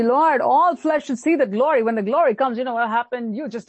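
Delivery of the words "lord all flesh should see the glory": higher, lifted prayer; fervent prayer. Shown as a demonstration. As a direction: proclaim the prayer with fervour. Repeating the prayer with fervour.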